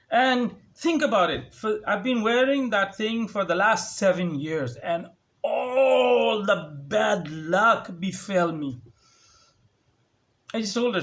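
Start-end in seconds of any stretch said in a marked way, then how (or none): 4.8-8.8 mock wail. Dramatic complaint about bad luck.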